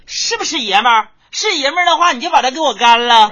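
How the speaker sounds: 高声喊，学老妈激将; 学妈妈逼老爸喝下去; mock mom yelling. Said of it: "老妈对老爸说". (模仿老妈高声激将)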